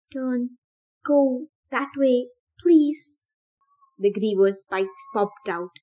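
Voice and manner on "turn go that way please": rising, slow desperate plea; pleading. Acted. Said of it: "Thomas pleaded silently".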